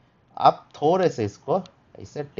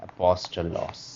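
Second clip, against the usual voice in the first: slow demo; 3 semitones lower, 3 dB quieter, much slower than usual. Shown as a demonstration. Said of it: "and this is".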